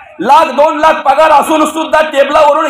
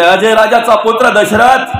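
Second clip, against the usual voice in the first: slow telling; 3 semitones lower than usual. Acted. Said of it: "सटवीने सांगितलं".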